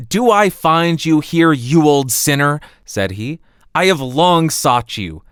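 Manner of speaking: loud, triumphant huntsman; huntsman's triumph. Acted. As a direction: catch the old sinner at last. Huntsman confronts the wolf.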